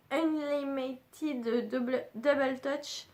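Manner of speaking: slow, stumbling English with a French accent. Real, not acted. Vlogger reading a lipstick shade name, French-accented English. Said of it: "Désolée pour mon accent ... j'ai un anglais pourri".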